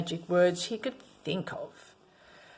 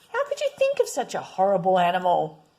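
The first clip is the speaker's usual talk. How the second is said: disgusted mother; 3 semitones lower, faster than usual. Acted.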